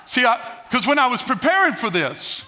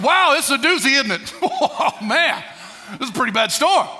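mock amazement; 3 semitones higher than usual. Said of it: "Jesus could have looked at Peter and said".

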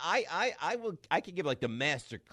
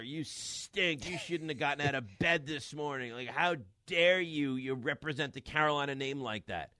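retold kid's screaming; 4 semitones higher than usual. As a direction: rant at the TV like an angry ten-year-old fan. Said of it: "he's screaming at".

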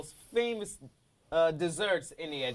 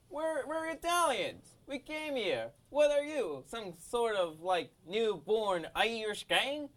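mock Italian gangster; 5 semitones higher than usual. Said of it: "And the Italians are like".

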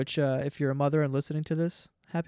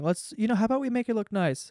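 imitating mom; 5 semitones higher than usual. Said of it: "she always says that red thing".

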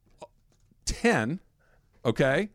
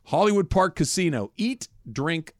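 upbeat ad read with announcer energy; radio contest promo; 2 semitones lower than usual. Acted. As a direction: sell it like a live radio spot. Reads a casino contest ad.

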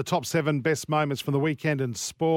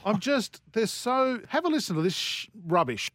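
yelling; 8 semitones higher than usual. Real, not acted. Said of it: "and I'll stop yelling".

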